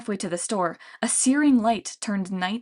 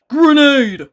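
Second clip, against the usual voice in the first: loud high panicked yell; alarmed yell; 6 semitones higher, 13 dB louder than usual. A narrator's reading. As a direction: warn the troops in a panic. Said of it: "Polybides yelled".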